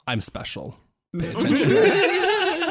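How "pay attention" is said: high, slow, louder mock command; hammed-up bossy demand. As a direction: insist with playful indignation. Mock demanding after "I'm special.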